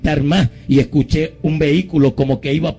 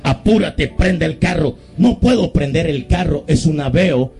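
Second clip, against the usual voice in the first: higher, urgent imitation of panicking youths; retold urgency; 4 semitones higher than usual. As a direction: re-enact a hurried, tense exchange. Acted urgent voices of panicking youths.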